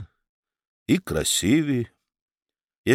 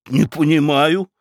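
snorting; 3 semitones higher, 3 dB louder than usual. Acted. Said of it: "фыркнула баронесса".

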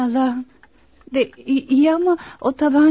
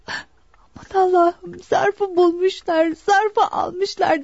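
slow, imitated horror; retold dismay; 3 semitones higher, much slower than usual. Daughter retelling her father's cry as he collapsed, slow dismay. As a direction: draw out the collapsing man's cry, slightly raised. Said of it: "diyerek olduğu yere çöktü kaldı".

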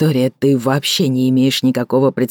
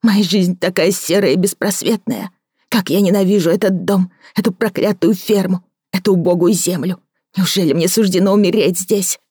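higher woman's voice, despairing; a lonely woman begging for help; Victoria's voice; 5 semitones higher than usual. Acted. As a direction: pour out her despair.

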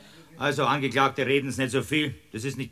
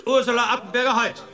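stern interruption; 7 semitones higher than usual. Acted. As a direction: cut her off sharply. Judge cuts off defendant.

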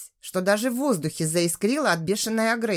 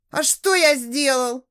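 higher, louder feigned astonishment; mock surprise; 5 semitones higher, 4 dB louder than usual. A narrator's reading. Rude customer to waitress, feigned astonishment. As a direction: play innocent, amazed. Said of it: "изумился наглый мужик".

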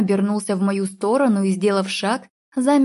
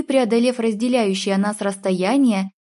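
ordinary delivery

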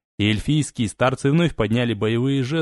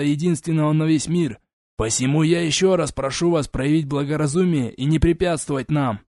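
high, measured lofty voice; condescending elf envoy; 4 semitones higher than usual. Acted. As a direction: lecture her calmly from above. Elf ambassador's long speech.

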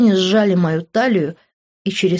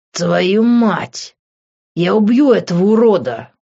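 a louder narrated outburst of rage; shouting; 3 semitones higher, 6 dB louder than usual. A narrator's reading. Grant learning her father knows, a moderate angry yell. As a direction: half-shout the threat, furious. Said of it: "закричал Грант".

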